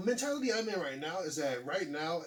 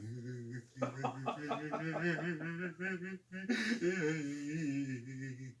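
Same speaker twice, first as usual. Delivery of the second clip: imitated wailing laugh. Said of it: "He started off like a Negro spiritual".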